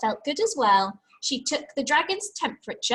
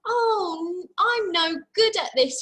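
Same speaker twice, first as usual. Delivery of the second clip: mild despair; 8 semitones higher, 5 dB louder than usual. Acted. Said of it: "he cried".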